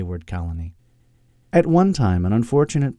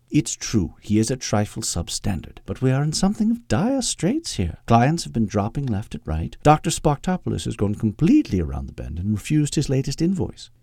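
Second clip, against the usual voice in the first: lightly voiced proper British secretary, pitch swooping up; a hint of haughty Englishwoman explaining trouble; prim English secretary, reasoning; 2 semitones higher than usual. Voices Agnes in the story.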